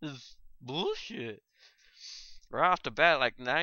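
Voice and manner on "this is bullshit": surprised outrage. Retold or imitated. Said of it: "I'm like".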